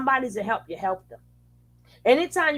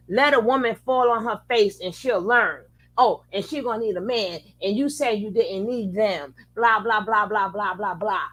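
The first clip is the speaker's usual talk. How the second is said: mocking quote. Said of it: "all you hear is".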